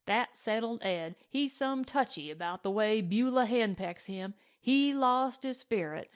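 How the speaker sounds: lightly voiced cowboy telling a tale; cowboy recounting a comic quarrel; drawling cowboy yarn-spinner. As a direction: spin it like a tickled ranch hand.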